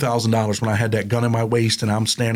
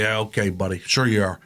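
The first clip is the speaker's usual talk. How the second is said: quieter, lower, mock-doubting; sarcastic dismissal; 3 semitones lower, 3 dB quieter than usual. Probation officer doubting the ex-prisoner, quieter sarcastic brush-off. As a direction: brush it off like an eye-rolling officer. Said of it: "rolled his eyes".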